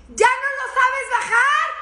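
high, loud, slow alarmed cry; high panicked shout at her husband; panicked yell. Retold or imitated. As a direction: yell up in alarm at the lost drone. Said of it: "se oye mi grito".

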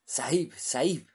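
breathless whispered gasps; breathless terrified whisper; out of breath. Acted. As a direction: gasp the words out, slow and spent. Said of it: "con la respiración entrecortada".

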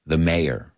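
"mayor" in two syllables, MAY-er; American pronunciation. Shown as a demonstration. Teacher answering how to pronounce it, "mayor" as MAY-er. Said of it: "say it with me".

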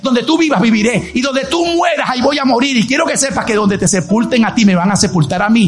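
Ruth's vow as emphatic pulpit oratory; fervent, insistent sermon declamation; impassioned preaching. Acted. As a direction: declare the vow with driving conviction.

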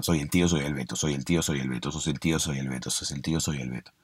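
retahíla en voz baja y grave; repítelo como una discusión en bucle, bajando el volumen; trabalenguas. Retold or imitated. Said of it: "Era como una especie de trabalenguas". (trabalenguas recitado por lo bajo)

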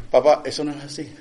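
a touch of the son's sarcasm, said straight; sarcastic son quote. Retold or imitated. Son correcting his dad, with mild sarcasm. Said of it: "con sarcasmo".

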